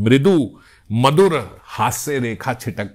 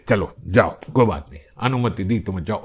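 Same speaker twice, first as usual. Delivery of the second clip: low, offhand permission; lightly voiced sakhi, low and dismissive; grudging sakhi; 6 semitones lower, faster than usual. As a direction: wave him in with a shrug. Sakhis grudgingly let Krishna in.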